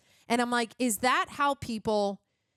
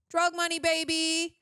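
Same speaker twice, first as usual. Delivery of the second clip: higher, playful crow; gleeful hype; 6 semitones higher than usual. Real, not acted. Reviewer cheering her own theory about the director, gleeful. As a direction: celebrate it like a winning guess.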